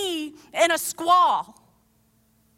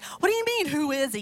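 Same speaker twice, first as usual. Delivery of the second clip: incredulous; faster than usual. Retold or imitated. Younger self arguing with the disciples, incredulous. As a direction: react as a baffled younger self. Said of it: "I remember as younger being like".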